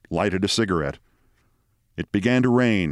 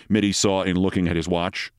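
ordinary delivery

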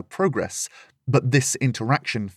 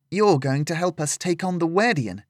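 a lightly raised younger voice, questioning; young Lillian, surprised; 6 semitones higher than usual. Acted. Lillian asks Cassandra about helping, a lightly higher surprised girl. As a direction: lift it into a girl's startled question.

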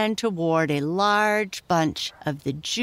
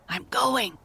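lightly voiced little pig, pitched up; a higher-pitched piglet talking to himself; a hint of an eager little pig; 7 semitones higher than usual. A narrator's reading. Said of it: "said Squinty to himself".

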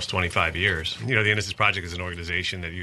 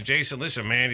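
lightly put-on Virginia accent, higher; Keith Allen Harward's Virginia accent; 3 semitones higher than usual. Exoneree addressing the podcast host, imitated Virginia accent. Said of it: "I can do his accent pretty well".

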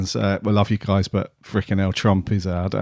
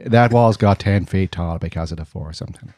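bad Trump impression. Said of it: "Terrible impressions".

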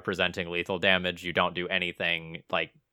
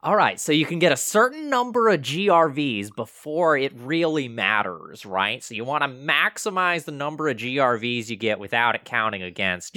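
high, loud, joking instructor; mock cheating lesson; 7 semitones higher, 5 dB louder than usual. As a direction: launch eagerly into a mock how-to, raised voice.

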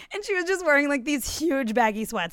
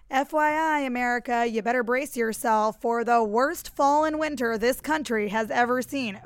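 mock CDC director accent. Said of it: "I don't think that he does that voice".

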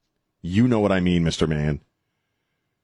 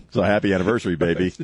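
romantic; 3 semitones lower, faster than usual. Real, not acted. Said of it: "It's my way of saying I love you".

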